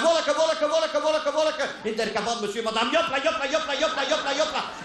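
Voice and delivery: halting foreign-language mime; broken German. Retold or imitated. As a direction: struggle to explain in bad German. Broken German to Swiss police.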